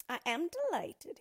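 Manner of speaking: high, loud, pleased greeting; jaunty dwarf. Acted. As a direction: exclaim with theatrical self-satisfaction.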